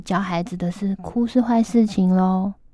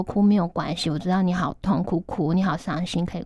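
tender reassurance; 4 dB quieter than usual. Retold or imitated. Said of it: "跟我女儿说".

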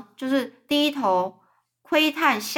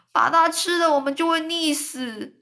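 shouting; 7 semitones higher than usual. Acted. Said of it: "那蚯蚓又大叫着说".

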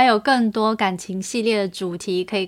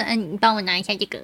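duck voice; 4 dB quieter, much faster than usual. Shown as a demonstration. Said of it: "我还压了一点鸭子音进去了".

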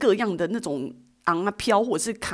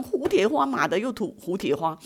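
annoyed grumble; 4 semitones higher than usual. Retold or imitated. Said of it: "我整个超不爽的".

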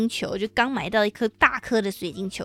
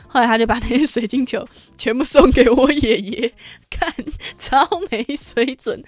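loud, higher mocking jab; mocking punchline; 3 semitones higher, 5 dB louder than usual. Real, not acted. Teasing her brother about giving away the globes. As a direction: tease the brother's cheap move.

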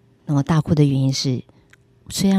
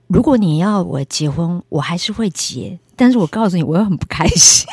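louder, half-joking protest; honest complaint; 2 semitones higher, 4 dB louder than usual. Retold or imitated. Telling Jesus she will be unhappy, loud mock protest. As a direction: grumble it frankly to Jesus. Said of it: "所以我就跟耶稣说".

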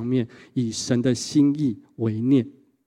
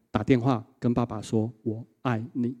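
quiet inner voice; 6 dB quieter than usual. Retold or imitated. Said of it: "从神来的声音跟他说".

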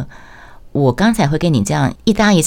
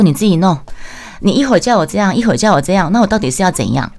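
angry retort; 4 semitones higher, faster than usual. Retold or imitated. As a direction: let the frustration boil over. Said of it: "他也是来火气".

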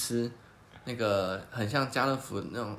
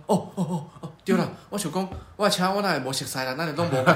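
put-on flustered old uncle; 4 semitones higher, 5 dB louder than usual. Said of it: "他说".

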